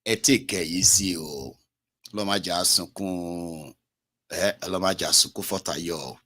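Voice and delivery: hushed comfort in Yoruba; soothing. Retold or imitated. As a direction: gently settle the crier down. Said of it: "I said".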